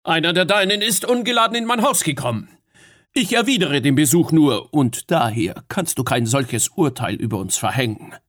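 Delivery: eager argument. Acted. Fionn argues his case to Mab, fast and urgent. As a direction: press the point before she interrupts.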